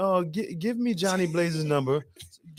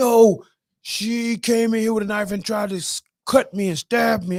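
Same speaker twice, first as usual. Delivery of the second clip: put-on tipsy drunk voice, higher and louder; 4 semitones higher, 4 dB louder than usual. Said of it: "Sunshine was tipsy as hell".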